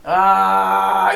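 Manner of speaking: long, level stalling "uh"; drawn-out "uh". Retold or imitated. Host mimicking Tom caught in a lie, long stalled uh. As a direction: imitate him stuck on a long uh. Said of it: "So he's just like this".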